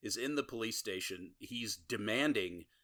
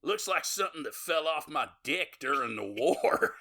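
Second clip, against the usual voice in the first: hick's crude remark; 6 semitones higher, 6 dB louder than usual. Retold or imitated. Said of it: "you hear one of the guys in the back go".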